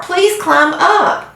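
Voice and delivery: high, drawn-out begging; very slow, pleading; slow desperate plea. A narrator's reading. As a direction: stretch out the plea. Wilbur's last desperate plea.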